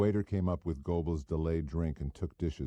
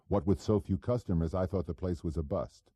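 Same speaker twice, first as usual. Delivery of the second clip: a hint of a cocky small-time operator; pushy hood Goebel; 3 semitones higher than usual. Goebel needling the narrator at dinner, lightly voiced cocky hood.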